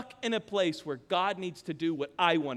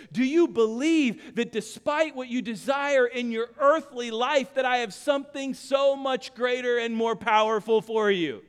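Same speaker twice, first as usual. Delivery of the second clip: Jesus speaking; 5 semitones higher, 5 dB louder than usual. Acted. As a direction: voice Jesus pressing Martha, growing to a preached cry. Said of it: "And he's saying to Martha".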